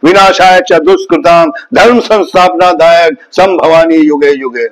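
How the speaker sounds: Sanskrit shloka recital. Shown as a demonstration. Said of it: "Sanskrit में भी".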